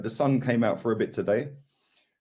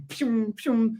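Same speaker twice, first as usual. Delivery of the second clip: lightning sound effect; 11 semitones higher than usual. Retold or imitated. Imitating lightning flashes.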